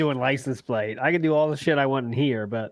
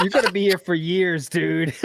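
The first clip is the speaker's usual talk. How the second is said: laughing therapist; 4 semitones higher than usual. Pretend. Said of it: "They'd be like".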